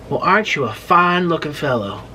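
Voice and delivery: imitated confident Southern boy; lightly put-on Southern charm; Southern accent.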